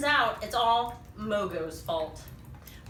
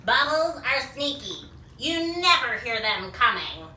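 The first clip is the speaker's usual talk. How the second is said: Mogo; 4 dB louder than usual. Acted. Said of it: "That's what Mogo's saying".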